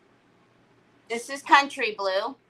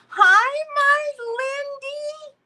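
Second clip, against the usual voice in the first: very high, slow, cooing "my Lindy"; sweet sing-song greeting; 6 dB louder, much slower than usual. Real, not acted. Greeting her friend Lindy in a high, slow coo.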